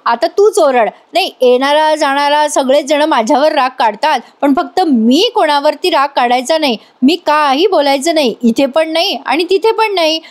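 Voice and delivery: mild imitated snapping at her sister, pitch rising; half-acted complaint, building as it goes; mock angry outburst. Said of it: "नंदिनीवर ओरडते".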